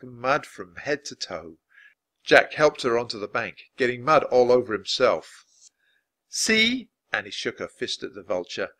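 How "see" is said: high, indignant retort; feisty high challenge; defiant cry. A narrator's reading. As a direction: throw it at them, pitched up. Annie shakes fist at vulture.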